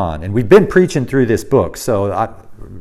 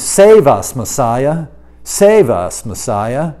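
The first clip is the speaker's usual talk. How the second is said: crowd crying out; 3 dB louder, slower than usual. Retold or imitated. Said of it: "which basically means".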